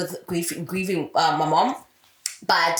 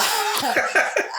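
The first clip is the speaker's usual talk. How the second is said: high burst of laughter; 14 semitones higher than usual. Real, not acted. Laughs at own joke.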